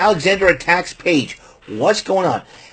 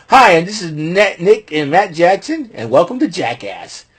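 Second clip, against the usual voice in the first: Jackass intro parody; 3 semitones higher than usual. Acted.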